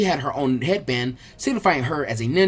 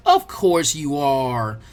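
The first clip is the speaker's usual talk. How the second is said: patronizing; 3 semitones lower, much slower than usual. Acted. Girl mockingly humours him.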